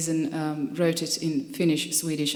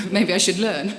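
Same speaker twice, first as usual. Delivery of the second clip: laughing; 3 semitones higher, 7 dB louder than usual. Real, not acted. Laughing while joking about diary.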